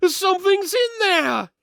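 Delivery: high, loud alarm call; panicked cry. Acted. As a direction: warn everyone, voice leaping up. Twin alarmed by creature.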